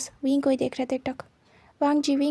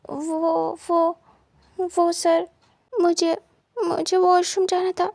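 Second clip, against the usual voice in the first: embarrassed; 3 semitones higher, much slower than usual. Acted. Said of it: "शर्माता है".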